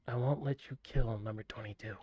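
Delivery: low, soft demonic growl. Acted. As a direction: speak as a menacing demon. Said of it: "This is the demon voice".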